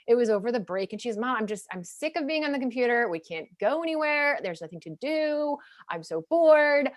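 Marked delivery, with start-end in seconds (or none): 1.2-6.9 imitating a fed-up kid, pitched higher; mock bored complaint. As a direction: complain to mom, stretching out the last words. Voicing her bored daughter's complaint.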